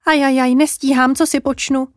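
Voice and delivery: a touch of tearful worry; mildly distressed jay. Acted. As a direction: fret like an overwhelmed little bird. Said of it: "Uslyšeli vzlikat cojku modřenku".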